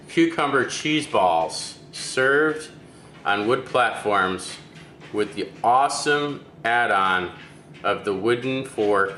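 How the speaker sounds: slow, drawn-out presenter's closing line; slow sign-off. Acted. Host presents the finished dish to viewers, slow closing sign-off. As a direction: savour each word like a show host wrapping up.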